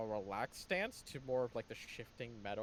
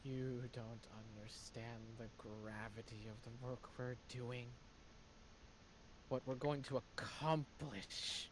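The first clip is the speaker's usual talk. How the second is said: menacing whisper of grand plans; generic villain voice; 6 dB quieter than usual. Acted. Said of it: "sound any more like a generic villain".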